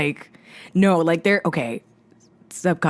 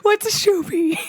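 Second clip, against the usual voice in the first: surfer dude voice through a laugh; laid-back California surfer question; 12 semitones higher than usual. Pretend. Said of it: "We found some use for this voice".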